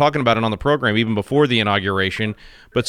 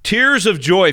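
mock weeping; 5 semitones higher, much slower than usual. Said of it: "I'm weeping with joy".

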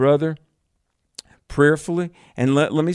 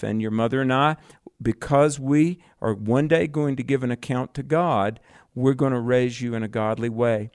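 calm. Shown as a demonstration. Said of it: "Very calmly say".

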